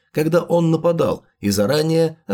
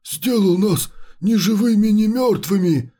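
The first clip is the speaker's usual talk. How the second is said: eerie, hollow undead voice; a creature speaking from beyond death; chimera voice; 3 semitones higher than usual. Acted. Chimera voice in the story.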